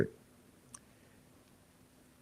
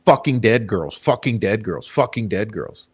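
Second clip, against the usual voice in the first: mocking repetition; 4 semitones lower than usual. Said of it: "Why you keep saying".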